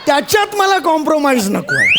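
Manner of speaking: high laughing boast; laughing shout. Acted. Boss laughs, demands work.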